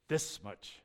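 a sinking whisper-like stress on the amount; hushed emphasis. Shown as a demonstration. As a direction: say "this much guilt and shame" low and weighty. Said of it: "I'm really doing graphs with my hands".

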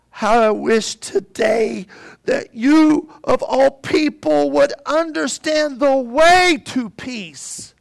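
a slow, crying plea, voice breaking; Jesus weeping over the city; anguished weeping. Acted. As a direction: plead through tears, slow and loud. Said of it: "he begins to weep in deep anguish".

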